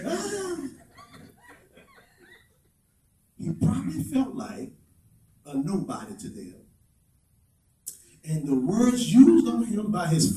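hushed sermon reflection; soft preaching. Acted. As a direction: pull the room in close. Soft intimate sermon stretch.

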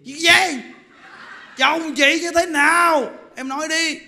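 startled and demanding; alarmed question. Retold or imitated. Wife alarmed about husband. (giọng hốt hoảng, hỏi dồn)

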